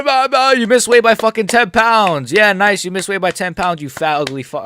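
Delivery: high, loud mock tirade; mock berating. Streamer mock-yelling at the fighter who missed weight, furious. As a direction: scream insults like a furious coach.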